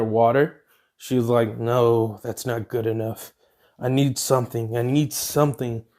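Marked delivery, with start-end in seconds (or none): 1.6-5.8 low, softer self-talk; muttering to herself. Acted. Heroine searching for energy mutters to herself softly. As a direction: mutter it under your breath.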